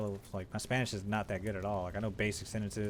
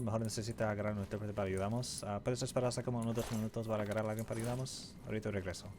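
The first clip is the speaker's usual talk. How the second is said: rehearsed Spanish; faster than usual. Retold or imitated. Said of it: "how many times I rehearsed that".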